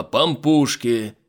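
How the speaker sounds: slow, drawn-out hawker's call. Acted. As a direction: stretch out Пампушки like a street vendor. Vendor calling out, drawn out.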